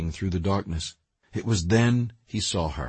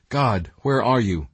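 crying out; 2 semitones higher, 4 dB louder than usual. Retold or imitated. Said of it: "Some may cry".

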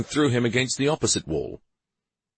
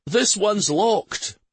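shouted; 12 semitones higher, 3 dB louder, much slower than usual. Acted. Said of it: "One of the guardsmen shouted".

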